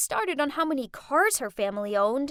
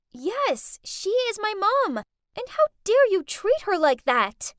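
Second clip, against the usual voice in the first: higher, louder indignation; defiant anger; 7 semitones higher, 6 dB louder than usual. Acted. Daughter confronting rich friends for her mother, angry. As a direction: stand up for her.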